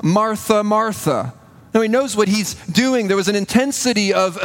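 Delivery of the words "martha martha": tender call. Retold or imitated. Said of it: "He says".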